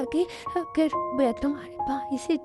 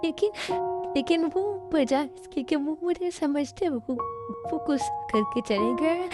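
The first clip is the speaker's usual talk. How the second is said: alone at night, scared, speaking through sobs; crying; 3 semitones higher than usual. Acted. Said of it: "ताई, please तुम रोना बंद करो". (रोते हुए, डरी हुई धीमी आवाज़)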